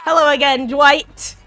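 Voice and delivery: creepy killer greeting. Pretend. Creepy greeting to hunted player.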